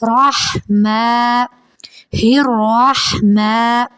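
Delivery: الرحمن with a rolled ر, slow. Shown as a demonstration. Teacher models the repeated ra sound. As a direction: roll the ر in الرحمن. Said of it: "ہا حلق سے ادا کریں گے".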